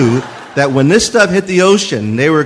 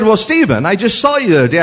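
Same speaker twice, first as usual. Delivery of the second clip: lightly voiced mother, higher pitch; startled mother; 6 semitones higher, faster than usual. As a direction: imitate a taken-aback mother on the phone. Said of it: "She said".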